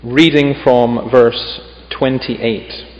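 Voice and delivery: measured, solemn Bible reading; scripture reading. Acted. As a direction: read the passage with weight, phrase by phrase. Reads scripture aloud.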